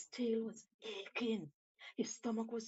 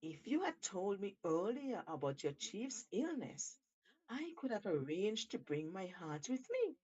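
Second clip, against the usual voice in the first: a lightly raised, cunning monkey voice; a hint of a crafty monkey; sly Monkey. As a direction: coax the shark with mock regret. Monkey speaking to Shark.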